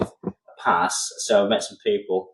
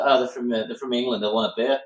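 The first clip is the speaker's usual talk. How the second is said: put-on a light, jokey South African accent; lightly sketched South African accent, teasing; mock South African accent; 2 semitones higher than usual. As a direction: put on a half-hearted South African accent for the team guy. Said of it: "sorry, I won't do that accent again".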